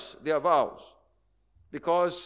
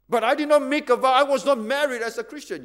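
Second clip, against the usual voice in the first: indignant objection; 4 semitones higher, 4 dB louder than usual. Acted. Objecting church member voiced.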